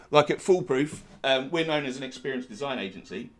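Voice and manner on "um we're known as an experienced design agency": ordinary talk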